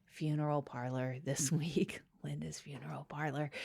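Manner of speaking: whispered, as if in a funeral home; hushed whisper. Acted. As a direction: keep it hushed for the dead. Hushed funeral parlor intro.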